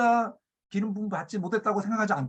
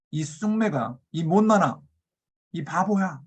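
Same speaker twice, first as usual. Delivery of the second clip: mild retold insults; slower than usual. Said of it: "이렇게 말하는 거예요".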